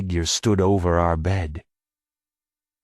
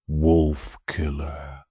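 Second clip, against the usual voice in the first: slow, low, drawn-out creature voice; eerie whisper of a name; long low whisper; 6 semitones lower, much slower than usual. A narrator's reading. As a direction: stretch it out like a summons from the dark. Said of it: "Long and low".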